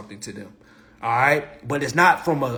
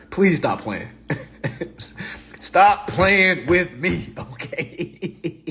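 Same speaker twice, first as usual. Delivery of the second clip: laughing plea; 3 semitones higher, much slower than usual. Real, not acted. Laughing refrain.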